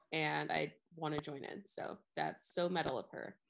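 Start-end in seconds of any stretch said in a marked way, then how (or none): 2.2-3.4 flat deadpan delivery; monotone. Shown as a demonstration. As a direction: say it with no inflection. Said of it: "in a monotone voice".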